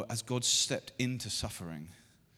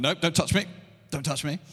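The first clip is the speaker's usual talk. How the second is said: imitating son; 5 semitones higher, 8 dB louder, faster than usual. Son's voice quoted, pushing away.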